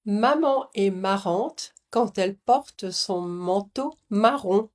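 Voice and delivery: slow, careful French nasal vowels. Shown as a demonstration. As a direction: repeat it slowly, leaning on the nasal vowels. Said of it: "Tu veux essayer de répéter". (voyelles nasales lentes et appuyées)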